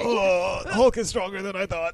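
a hint of a stunned Loki; dazed Loki. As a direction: say it like you just got flattened.

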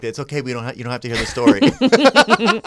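high apology breaking into laughter; laughing imitation of reassurance; imitated embarrassed friends. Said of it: "Her friends were giving me".

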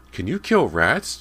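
put-on high, loud, slow little-kid voice; piping up. A narrator's reading. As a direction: pipe up eagerly like a child. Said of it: "James piped up from beside Callie".

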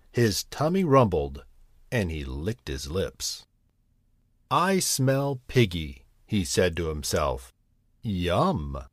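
put-on gentle storyteller reading to children; cosy read-aloud storybook voice; bedtime story narration. A narrator's reading.

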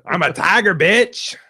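tiger voice. Pretend. Playing tiger avatar.

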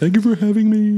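put-on German accent. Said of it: "You don't have to talk like that".

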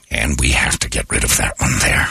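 low, measured presidential address; deep voice of a grave narrator-president; Morgan Freeman. Acted. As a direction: announce it low, like a solemn statesman. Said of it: "Morgan Freeman was president and he said".

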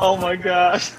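high-pitched retold wail; mock crying reaction. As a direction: imitate someone tearfully overwhelmed. Acting out her crying all day.

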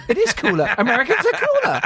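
high, laughing praise. Acted. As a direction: gush with a laugh.

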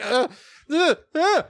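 short high sounds of alarm; freaked-out grunts. Retold or imitated. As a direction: mimic a freaked-out baby's "uh"s. Acting out a freaked-out baby.

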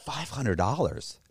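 rising high incredulous protest; mock outrage. Man haggling, faking outrage at a cheap price. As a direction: fake shock at the price. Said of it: "argue with him like it's a big deal".

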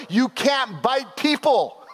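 firm parent lesson. Retold or imitated. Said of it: "You have to sit there and go".

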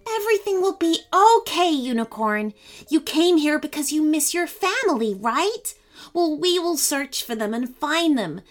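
high, gentle reassurance; calm a frightened animal; soothing girl. A narrator's reading. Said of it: "whispered to the unicorn".

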